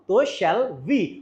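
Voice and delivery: slow, drawn-out "shall we" with a rise; slow model phrase. Shown as a demonstration. Teacher drilling the answer slowly to students. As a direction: stretch out "तो shall we" slowly for the class. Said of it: "समझ में आया?".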